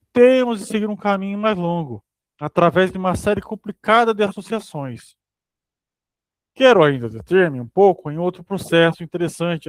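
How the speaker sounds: measured book-reading delivery; reading aloud. Acted. Reading a psychoanalysis text to a study partner, read aloud. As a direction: read out a scholarly text, evenly phrased.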